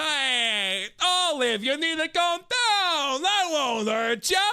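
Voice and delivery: put-on high, loud, stretched-out Italian accent; comically hammed-up Italian mobster accent; mock Italian accent. Crime boss telling Olive to calm down, hammed-up Italian accent. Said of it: "Italian accent".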